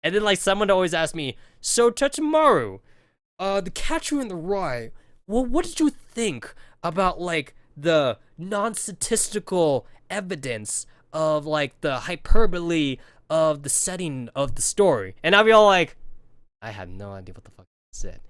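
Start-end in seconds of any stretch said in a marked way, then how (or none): 1.6-15.1 a hint of a pompous know-it-all; lightly voiced smarmy student, slowed on the big words; pretentious classmate. Classmate quizzing him on Catcher in the Rye, mock pompous. 16.6-18.2 low, soft, flat confession; deadpan mumble. Retold or imitated. Answering the classmate's question, low dumbfounded mumble. His own dumbfounded inner reply.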